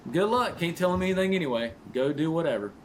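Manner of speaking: mock wife voice. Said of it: "our wives are just like".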